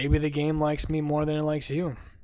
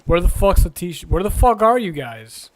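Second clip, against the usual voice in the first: calling out; 3 semitones higher, 6 dB louder than usual. Real, not acted. Calling out for lost friends.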